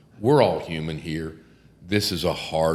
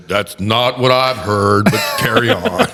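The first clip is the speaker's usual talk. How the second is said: dry judge quip; 6 dB louder than usual. Pretend. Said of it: "I'd say".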